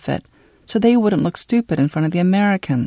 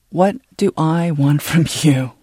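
angry demand; 5 dB louder than usual. Acted. Father's continued rage.

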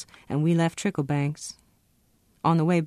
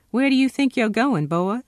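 high, loud bullying demand; a loud, jeering shout at the soldier blocking the door; menacing challenge; 7 semitones higher, 5 dB louder than usual. A narrator's reading. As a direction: corner him with a loud sneer. Doc Turpin confronts Ronsel.

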